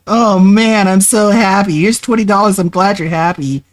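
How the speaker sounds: high, excited fake fan voice; mocking gushing fan. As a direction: gush like a naive fan.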